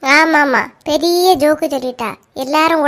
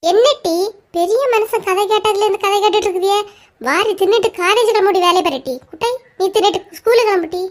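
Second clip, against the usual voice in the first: scolding mother; 4 semitones higher than usual. Acted.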